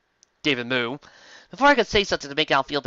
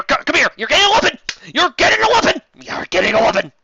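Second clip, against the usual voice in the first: loud, much higher prize-show yell; giveaway shouting; 10 semitones higher, 7 dB louder, faster than usual. Acted. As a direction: hype up each winner. Oprah-style giveaway shouting.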